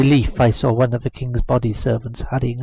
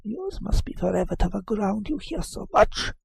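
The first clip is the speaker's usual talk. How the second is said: sly retort; 6 semitones higher, 5 dB quieter than usual. Acted.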